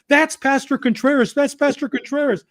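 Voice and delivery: restrained, high-pitched retelling of a yell; retold yelling. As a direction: imitate a man urgently calling out. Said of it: "and he's yelling".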